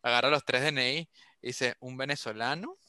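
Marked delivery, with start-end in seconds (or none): 1.8-2.8 softer, drawn-out mock policeman; imitated policeman reading nationalities. Policeman checking three friends' IDs, slow imitated roll call. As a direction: read out each one slowly, imitating the officer. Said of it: "me da risa como lo dice".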